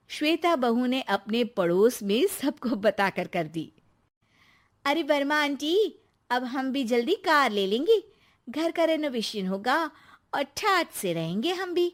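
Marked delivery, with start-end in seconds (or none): 4.8-11.9 lightly voiced gleeful bragging; boastful daughter-in-law. Shweta telling the neighbour about coming riches, boastful. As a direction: brag happily, a little lilting.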